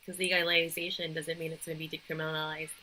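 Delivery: flat robot voice. Real, not acted. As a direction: stiff robot delivery, every syllable even. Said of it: "Why am I saying it like a robot".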